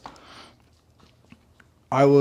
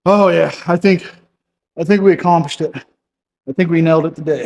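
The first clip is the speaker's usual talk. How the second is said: pleased; 4 semitones higher, 7 dB louder than usual. Real, not acted. Celebrating a finished workout.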